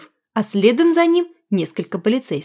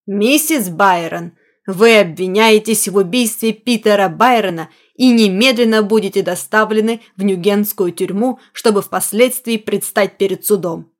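music-hall compere. Acted. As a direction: proclaim it like a stage host. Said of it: "громко объявил, совсем как конферансье в мюзик-холле".

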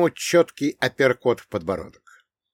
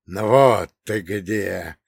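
mild shout; 2 semitones lower, 4 dB louder, much slower than usual. Acted. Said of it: "крикнул один из парней".

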